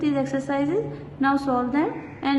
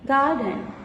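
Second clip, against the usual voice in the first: "Garden" with the first syllable GAR stressed. Shown as a demonstration. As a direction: lean on GAR in "Garden", DEN lighter. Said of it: "the syllable gar, G A R, it is more, uh, stressed one".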